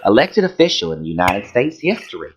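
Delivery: campy Southern reading voice; lilting hammed-up Southern accent; put-on Southern accent. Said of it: "I don't know why I'm doing this voice".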